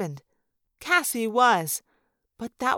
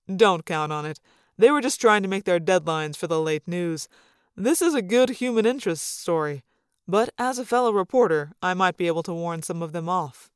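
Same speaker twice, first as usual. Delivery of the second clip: hint of a lower, fatherly voice; lightly voiced dad; 3 semitones lower than usual. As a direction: lightly play a protective father offering help.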